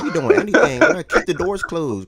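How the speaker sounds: loud, high call to another room; yelling across the room. Real, not acted. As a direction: shout over to someone.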